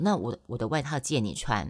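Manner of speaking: ordinary delivery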